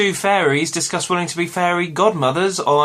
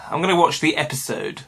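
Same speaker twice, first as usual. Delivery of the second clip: a light posh English accent on episode; a hint of upper-class English, crisp on episode; half-joking posh English voice. Shown as a demonstration. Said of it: "Was that a posh voice?".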